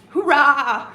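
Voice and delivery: hammed-up, drawn-out hurrah; mock triumphant cry; John Cena. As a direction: stretch it out theatrically, then crack up. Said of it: "if he's gonna say it like that".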